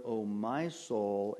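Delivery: "my" drawn out slowly; stress on MY. Shown as a demonstration. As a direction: lean long on the word "my". Stressing personal words of psalm.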